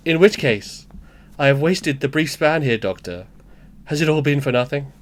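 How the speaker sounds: recovered Welsh lilt for a dramatic monologue; attempted Welsh accent. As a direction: deliver it in an amateur Welsh accent. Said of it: "you've won it back".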